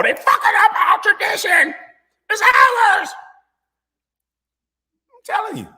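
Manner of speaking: a hammed-up redneck yelling over a quarterback; mock racist fan rant. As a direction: rant like an outraged good old boy.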